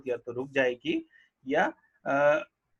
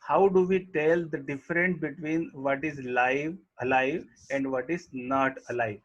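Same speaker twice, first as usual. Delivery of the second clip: reading the English line very slowly; slow textbook reading; much slower than usual. Acted. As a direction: dictate each word to the class. Reads textbook line aloud slowly. (पाठ्यपुस्तक से धीरे-धीरे पढ़ना)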